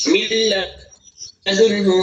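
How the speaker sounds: min ladunhu slowly merged; drawn-out milladunhu; slow demo of min ladunhu; slow merged reading. Shown as a demonstration.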